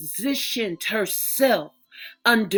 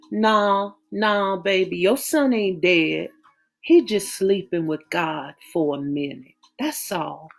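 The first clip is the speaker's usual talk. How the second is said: soothing. Acted. Mother soothing frightened daughter.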